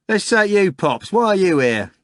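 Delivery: high, loud challenge to Pops; a fat cook confronting Nikanor; fat cook calling out. Acted. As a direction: bark it straight at him. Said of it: "a fat cook with a red neck said".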